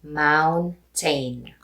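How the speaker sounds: Filipino-accented mountain, said slowly. Shown as a demonstration. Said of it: "Say it slowly".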